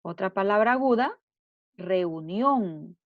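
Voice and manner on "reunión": "reunión" with NIÓN drawn out and raised in pitch; stress on final syllable. Shown as a demonstration. Teacher showing pupils an aguda word, "reunión" stressed on NIÓN. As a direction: lean on the last syllable of "reunión". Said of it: "la sílaba nión".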